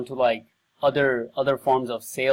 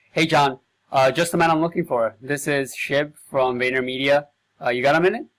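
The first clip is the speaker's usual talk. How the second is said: bright friendly salesman opener, a little louder; hint of a keen phone salesman; upbeat cold call pitch; 5 dB louder than usual. Shown as a demonstration. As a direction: sell it with a friendly, energetic hello. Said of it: "I'm gonna read it with the emphasis".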